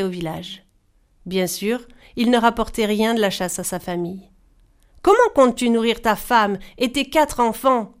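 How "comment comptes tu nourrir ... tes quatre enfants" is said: a mild lament, a touch louder; lamenting wife. Acted. Wife lamenting to her lazy husband, mild mock lament. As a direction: plead with him, gently wailing. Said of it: "se lamentait sa femme".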